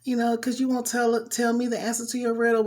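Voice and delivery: high pleading wife voice, fast at the end; imitating a nagging tearful wife; whiny crying wife. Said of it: "kept crying, kept crying, kept crying, saying".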